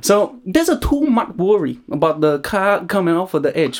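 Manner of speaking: put-on Thai accent. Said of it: "this is the accent corner that I'm doing".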